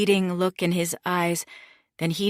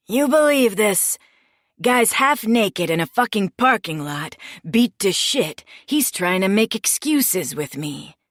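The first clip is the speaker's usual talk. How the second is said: mocking scorn; 3 semitones higher, 4 dB louder than usual. Boss mocks the man to goons.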